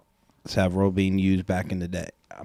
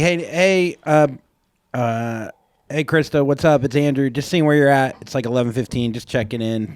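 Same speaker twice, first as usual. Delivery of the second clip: casual voicemail; 4 semitones higher than usual. Retold or imitated. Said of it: "It starts like".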